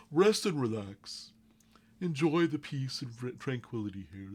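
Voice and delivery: high, airy-pitched Firbolg healer. Acted. Firbolg offers rest and tranquility, high Firbolg voice. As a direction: lift the voice high for a Firbolg, settling by the end. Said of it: "much more of a Firbolg voice".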